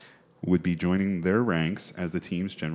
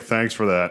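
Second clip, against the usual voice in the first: forced, put-on, pissed-off anger; 3 semitones higher, 5 dB louder than usual. Retelling his reply after hearing a terrible recap: imitating a pissed-off reply. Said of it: "so he was pissed off".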